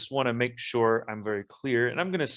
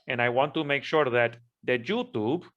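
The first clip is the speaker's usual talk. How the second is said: hammed-up Spanish accent. Speaking to YouTube in a lightly put-on Spanish accent. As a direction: play up a Spanish accent while clarifying, only lightly. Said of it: "I am going to use my Spanish accent".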